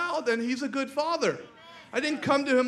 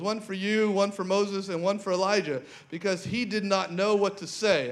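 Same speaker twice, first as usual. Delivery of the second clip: lower, steady Bible reading voice; scripture reading; 3 semitones lower than usual. Acted. Preacher reading Mark nine to the congregation, steady and lower. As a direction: read the passage out to the church.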